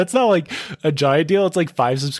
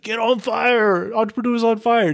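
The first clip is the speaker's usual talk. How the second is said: J L D; 9 semitones higher than usual. Retold or imitated. Podcaster quoting a fellow host's catchphrase, high-pitched hype. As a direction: stretch it out high like a show slogan. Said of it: "that's what J L D would say".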